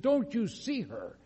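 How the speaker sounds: high, drawn-out mock cry of alarm; retold frightened scream. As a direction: imitate a terrified woman without full volume. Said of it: "She screams at the top of her voice".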